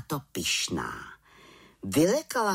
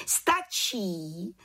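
head witch calling; 6 semitones higher than usual. A narrator's reading. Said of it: "zvolala vrchní čarodějnice".

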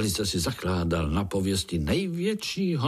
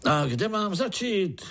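pleased shout; 10 semitones higher than usual. Acted. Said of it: "křičel strýček spokojeně".

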